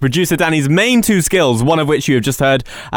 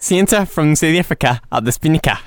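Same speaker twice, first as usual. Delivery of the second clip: South African accent. Shown as a demonstration. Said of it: "Say it quickly. In a South African accent".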